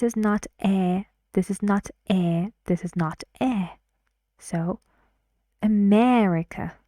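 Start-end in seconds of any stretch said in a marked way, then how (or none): 5.6-6.7 "America" with a long, loud open "e" in the stressed syllable. Shown as a demonstration. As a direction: stretch and punch the "me" in "America". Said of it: "that long, loud vowel, which is e".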